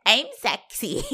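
laughing mock sexy. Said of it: "And you're like".

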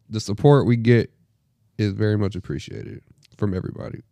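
sincere, subdued gratitude; getting soft. Real, not acted. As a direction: let it sink into quiet sincerity. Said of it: "don't get soft on me now".

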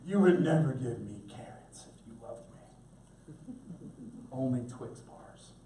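low, slow mock sulk; drawn-out, softened childish grumble; resentful kid. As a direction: imitate a child quietly pouting at a parent. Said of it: "our kids see that as us hating them".

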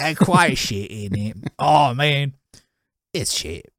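shitty British accent. Shown as a demonstration. Joking that bad accents are funnier, awful British. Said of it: "like a shitty British accent".

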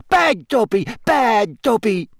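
high, squealing elf self-scolding; high-pitched, emphatic elf squeal; Dobby. A narrator's reading. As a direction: squeal it as a frantic little elf.

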